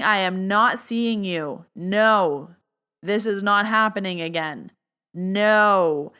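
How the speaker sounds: firm, emphatic refusal; retold yelling. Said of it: "I was at home yelling".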